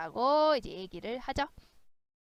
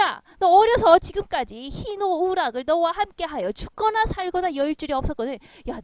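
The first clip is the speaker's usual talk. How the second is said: aggrieved ghost, pitched up at the outbursts; mock tearful indignation; 2 semitones higher, 4 dB louder than usual. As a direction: protest like a wronged, jilted companion. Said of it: "막 울면서 분하면서 화를 내면서". (분하고 억울한 척 따지듯)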